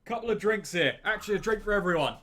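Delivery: put-on cheeky London accent shouted at the barman. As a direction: call out across the bar in a London accent. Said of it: "I open the door and I'm like".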